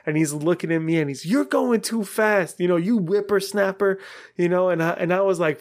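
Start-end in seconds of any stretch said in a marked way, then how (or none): 1.3-4.0 mock an old man telling off youngsters; imitated old dude. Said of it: "This old dude".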